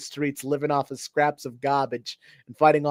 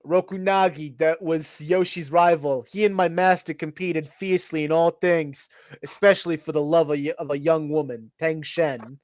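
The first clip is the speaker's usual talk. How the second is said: put-on New York accent. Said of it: "I'll do a New York accent then".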